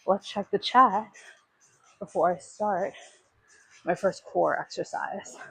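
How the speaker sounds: slow, winded from the workout; out of breath. Real, not acted. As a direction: talk between heavy breaths. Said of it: "I'm already out of breath".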